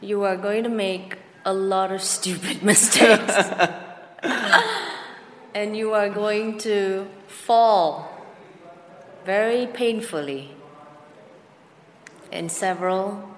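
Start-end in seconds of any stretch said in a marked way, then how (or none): 0.0-10.5 laughing through it. Real, not acted. Advice to younger self, laughing.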